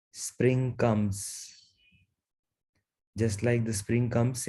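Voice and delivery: unhurried meditation guidance with long pauses; guided meditation. Real, not acted. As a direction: guide them gently into stillness, leaving long silences.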